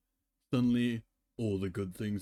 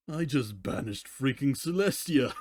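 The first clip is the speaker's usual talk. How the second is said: gleeful laugh; 3 semitones higher, 3 dB louder than usual. Acted. Twilight gloats after banishing Celestia.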